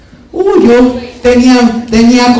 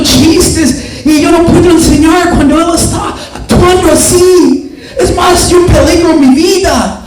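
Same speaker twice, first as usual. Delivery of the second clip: higher, whiny teacher voice; complaining teacher; 5 semitones higher than usual. Retold or imitated. Teacher griping to mom, lightly voiced whiny. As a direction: play the fed-up teacher griping.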